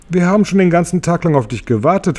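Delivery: höher und schnell; eifriger Grashüpfer. Acted. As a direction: hastig und aufgeregt. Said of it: "fuhr der Grashüpfer fort". (Grashüpfer begrüßt James, hoch und schnell)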